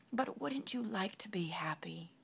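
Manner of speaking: Sunshine gently coaxes the king; gentle question. Acted.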